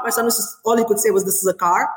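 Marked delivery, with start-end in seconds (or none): 1.2-1.9 lightly imitated London accent on "car"; a hint of a little boy's British accent. Mother quoting her small son, lightly British accent. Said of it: "the way he said car was, like, so British".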